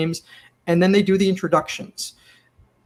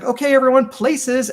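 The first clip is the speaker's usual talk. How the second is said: raised-pitch imitation of a stage call; mock crew announcement, pitched up; calling places; 6 semitones higher than usual. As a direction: call the cast to their places. Crew call before shooting starts.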